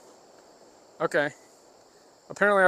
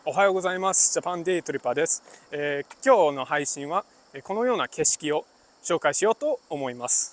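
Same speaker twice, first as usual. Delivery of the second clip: a little more hop, relaxed and bouncy; casual Japanese. Shown as a demonstration. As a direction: greet viewers like friends, lightly. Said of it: "That's casual".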